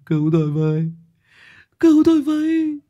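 rising to a high scream; desperate cry for help. A narrator's reading. Trapped captive screaming for help, desperate. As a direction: scream for rescue.

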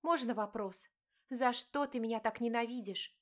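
wife confronting her cheating husband, pained; hurt wife. Acted. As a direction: plead and accuse at once. Diana asks husband.

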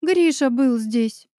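barely holding back sobs; a friend in tears, slow and broken; sobbing. Acted. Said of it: "всхлипнула Оля".

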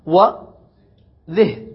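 وذه stretched very slowly; drawn-out form. Shown as a demonstration. Teacher listing the feminine forms, drawing one out. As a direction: hold وذه long so each sound is heard. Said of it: "خمسة مبدوءة بالذال وهي".

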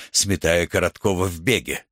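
plain reading voice

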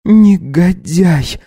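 high, slow, drained word; exhausted murmur. Acted. Wife weakly calls husband a scoundrel. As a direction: spent wife. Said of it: "пролепетала обессиленным голосом".

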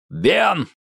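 sharp high call of a name; a sudden shout across the clearing. Acted. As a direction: call him out from the dark. Albi calls out sharply.

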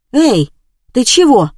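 loud, high alarmed call. Acted. Neighbours see Liza falling, loud alarmed call. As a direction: call out to someone fainting.

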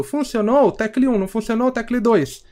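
a hint of an automated phone menu. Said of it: "Tudo robô falando".

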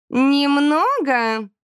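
very slow, high sceptical drawl; mock the word; scoffing Erji. A narrator's reading. Erji scoffing at the friends' lateness, drawn-out and high. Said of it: "хмыкнула Эрджи".

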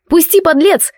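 high, angry cry; indignant shout. A narrator's reading. Heroine yells at Mort through the locked door. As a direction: pound and yell at the coward.

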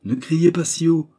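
loud, high, brusque order; rough retort. A narrator's reading. Old man fearing they'll be overheard, sharp retort. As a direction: cut her off harshly. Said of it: "répliqua rudement monsieur Noël".

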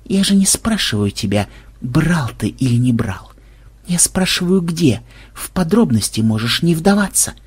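gently, half whispered; soft and sympathetic. Acted. Xenobyte softly coaxes the thief, sympathetic murmur. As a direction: coax him softly, almost kindly. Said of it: "Голос Ксенобайта снова стал мягким и даже где-то сочувственным".

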